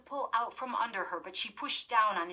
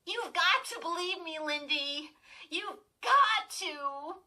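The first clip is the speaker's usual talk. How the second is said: desperate pleading; 9 semitones higher, 4 dB louder than usual. A narrator's reading. Chris still desperate.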